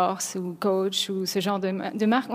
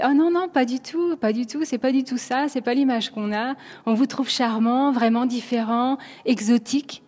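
eager protest; 3 semitones higher than usual. Retold or imitated. American colleague reassures the French employee about their image, retold eager protest. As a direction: imitate someone insisting that it's not so at all.

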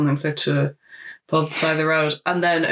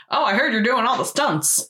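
lightly voiced studio head, pitched up; a higher, lilting hint of a film boss; Mister Simpson; 6 semitones higher than usual. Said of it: "every time he speaks is so funny to me".

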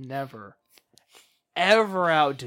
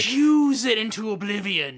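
excited emphasis; 6 semitones higher, 6 dB louder than usual. Real, not acted. Emphatic praise continued.

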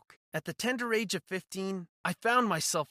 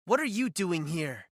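shaking with anger; 4 dB louder than usual. Acted. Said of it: "my voice shaking with anger".

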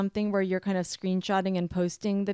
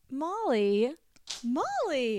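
Molly called out higher, up then down; higher sing-song Molly; 7 semitones higher, much slower than usual. Shown as a demonstration. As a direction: sing the name Molly high and bouncy. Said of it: "can I get a couple Molly?".

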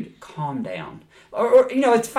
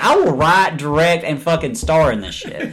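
mock eager; 2 semitones higher, 5 dB louder than usual. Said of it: "I'd be like".

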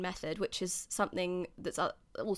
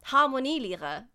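slow, careful German attempt; deliberate German pronunciation; terrible German accent; 4 dB louder than usual. Shown as a demonstration. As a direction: sound out the German word slowly. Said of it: "excuse my terrible German accent".

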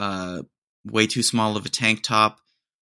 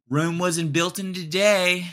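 slow, higher, mock-solemn Rome; mock proverb; 7 semitones higher than usual. Mocking the gym guy with a proverb, solemn. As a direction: recite it like a wise saying.

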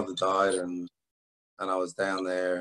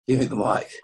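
repeating it with a laugh, slightly higher; 4 semitones higher, 3 dB louder than usual. Retold or imitated. Retelling how he asked the room for the mic, laughing. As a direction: laugh through the repeated demand.

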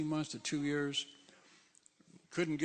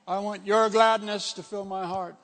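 simple prayer; 3 semitones higher, 7 dB louder than usual. Shown as a demonstration. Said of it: "simple thing to pray".

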